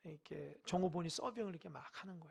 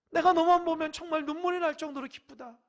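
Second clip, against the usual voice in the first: tearful joy; 8 semitones higher, 12 dB louder than usual. Acted. God overjoyed to the point of tears, loud. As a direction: stretch 눈물이 날 정도로 like joy near tears. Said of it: "하나님 볼 때에".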